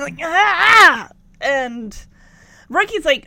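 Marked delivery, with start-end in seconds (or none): 0.2-1.1 high, loud "ah" of pain; imitated yelp of pain; mock pain cry. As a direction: cry out as if stabbed in the side. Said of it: "puts a hand to his side again".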